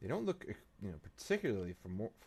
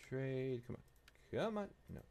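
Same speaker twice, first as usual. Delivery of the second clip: ordinary talk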